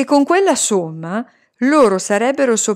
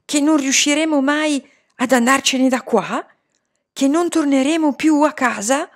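higher-pitched, indignant questions; peeved; 6 semitones higher than usual. A narrator's reading. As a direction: press for an answer, irritated. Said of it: "gli chiesi stizzita". (domande stizzite, tono acuto)

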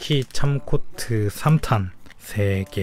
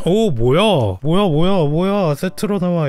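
excited; 6 semitones higher, 5 dB louder than usual. Real, not acted. Excited at gacha result.

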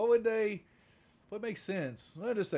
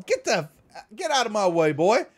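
louder, higher threatening order; gruff mock shout; 6 semitones higher, 6 dB louder than usual. Marshal orders the Marine aside, louder gruff shout. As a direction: shove past with a growl of command. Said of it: "the marshal says".

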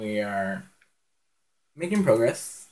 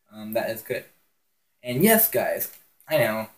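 hiccups; 5 dB louder than usual. Real, not acted. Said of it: "I got the hiccups".

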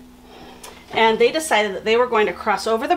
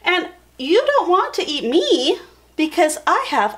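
high, squeaky little goat voice; very high small-creature voice; first little Billy Goat; 10 semitones higher than usual. A narrator's reading. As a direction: pipe up like a tiny goat. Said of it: "the first little Billy Goat says".

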